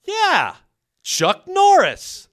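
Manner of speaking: very high, slow, loud nervous echo; terrified tourist parroting Chuck Norris. Retold or imitated. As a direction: squeak it back nervously. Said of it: "Me not knowing what to say".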